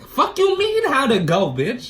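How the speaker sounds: retold angry yell at mom; furious outburst. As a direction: snap back at mom in outrage.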